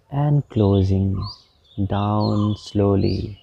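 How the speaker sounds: slow, measured meditation guide with long pauses; guided meditation. Real, not acted. Meditation teacher guiding listeners through palm movements, slow guided meditation. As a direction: draw out the instructions, unhurried and even.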